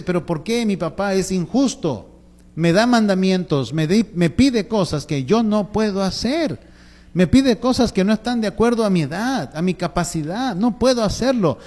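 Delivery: acted-out indignant boy, voice lifting; exasperated child. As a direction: protest like a frustrated kid. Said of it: "el niño se exaspera".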